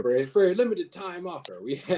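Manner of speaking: hammed-up TV pitchman; infomercial voice. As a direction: ham up a late night ad. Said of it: "infomercial voice there".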